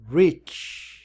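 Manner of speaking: "rich." with a w-like r and a t before ch; right way, W before R. Shown as a demonstration. Teacher shows students the right way, "rich." with a w-glide. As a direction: round the lips for "rich.". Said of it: "a gente pronuncia".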